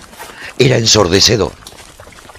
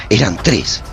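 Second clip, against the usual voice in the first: louder, tense and urgent; gripping battle narration; 5 semitones higher, 7 dB louder than usual. A narrator's reading. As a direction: push the fight forward with urgency. Narrating fierce battle with possessed.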